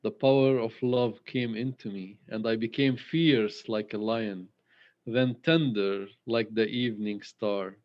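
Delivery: measured poem reading with long pauses; poem recital. Acted. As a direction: let each image land, pausing between lines. Rereads poem lines.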